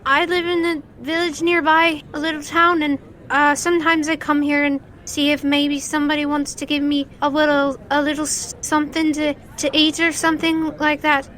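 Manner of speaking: put-on a hesitant little street kid asking politely; shy child. Street kid tugging at the winner, shy child voice. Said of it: "he goes".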